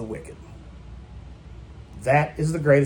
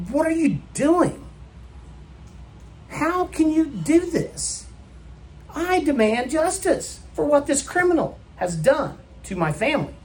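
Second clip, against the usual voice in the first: screaming at the judge; 12 semitones higher than usual. Retold or imitated. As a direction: demand justice at the top of your voice. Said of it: "You would scream at the judge".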